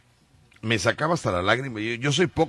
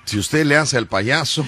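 clown catchphrase; 2 semitones higher, 5 dB louder than usual. Retold or imitated. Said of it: "dice el payaso Rucho".

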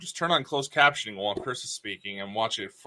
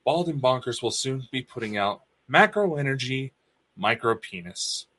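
tag. Pretend. Mock announcement of a new book.

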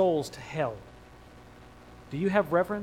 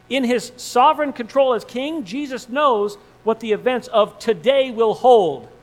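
rising preaching fervor; 4 semitones higher, 5 dB louder than usual. Real, not acted. Preacher builds to climax.

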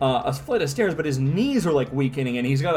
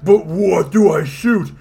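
confused hero; 2 semitones higher, 6 dB louder, slower than usual. Acted. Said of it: "It's like".

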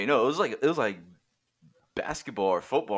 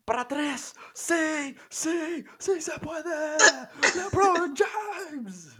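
Spanish sports commentator; 6 dB louder, much slower than usual. Retold or imitated. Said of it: "the Mexican commentators".

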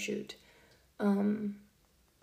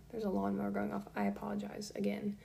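whispering; 6 dB quieter than usual. Real, not acted. Apologizing while lawnmower runs.

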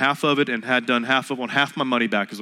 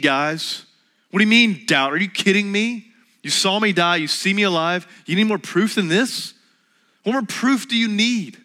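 higher, louder, incredulous scolding; mock exasperated Jesus; 6 semitones higher, 3 dB louder than usual. Preacher acting what Jesus didn't say, mock exasperated rebuke. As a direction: play an impatient teacher fed up with the class. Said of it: "he didn't do the".

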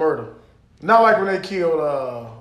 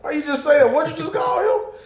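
mock scolding shout; 6 semitones higher than usual. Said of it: "You be like".

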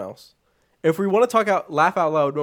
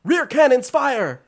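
slow, raised battle command; commander shout; 9 semitones higher, 6 dB louder, slower than usual. Retold or imitated. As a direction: bark the order across the bridge. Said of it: "commander lady is like".

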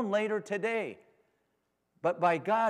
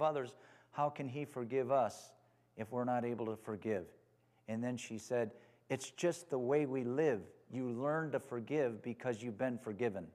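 softer and lower, calmly matter-of-fact; hushed, lower-voiced church lady quietly answering the interviewer; quiet gentle reply; 6 semitones lower, 7 dB quieter than usual. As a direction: answer simply and softly, as if it's obvious.

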